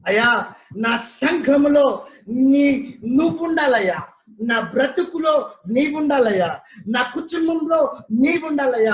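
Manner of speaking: loud, crying-out prayer; fervent prayer. Acted. Pastor crying out the prayer for church and family, loud. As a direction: call out to God with full force.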